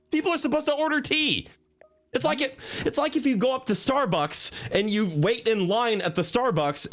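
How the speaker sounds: high, huffy shopkeeper voice, indignant; high-voiced tea shop owner. Tea shop owner fuming about customers, high indignant voice. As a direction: play the outraged tea lady.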